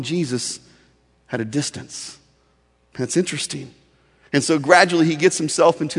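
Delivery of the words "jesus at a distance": soft emphasis. Acted. Preacher repeating the key phrase.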